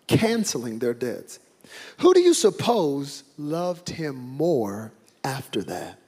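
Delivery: steady storytelling read of the Gospel; scripture reading. Acted. Pastor reads Luke seven to congregation, measured.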